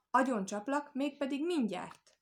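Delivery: wolf's indignant death threat; angry threat. A narrator's reading. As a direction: threaten it high and forceful, slowing at the end. Wolf threatens to kill the frog.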